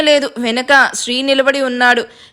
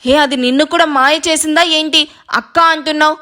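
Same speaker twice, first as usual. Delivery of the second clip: shocked. Acted. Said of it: "కళ్ళు పెద్దవి చేసి షాక్ అయ్యి".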